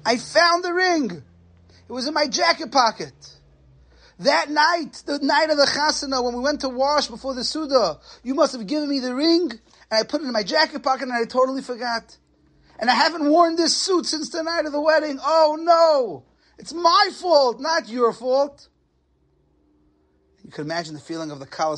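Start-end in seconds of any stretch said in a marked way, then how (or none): 0.1-1.2 high excited cry of relief; excited shout. Retold or imitated. Groom shouts to his bride that he found the ring, high and excited. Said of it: "the chassan screams and he says". 1.9-18.7 put-on raised, eager young husband's voice; a lightly voiced groom confessing in a rush; excited groom. Groom tells his bride the ring was in his pocket, lightly raised and eager.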